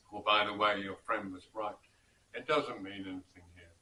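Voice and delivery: lightly put-on British officer accent, dry and clipped-free; a mild hint of a British officer's accent, cool retort. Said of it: "in my best British officer's accent".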